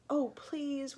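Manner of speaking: high, pleading little whimper. A narrator's reading. Eddie in the basket begs not to be eaten, whimpering. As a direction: plead like a frightened small child. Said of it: "whimpered Eddie".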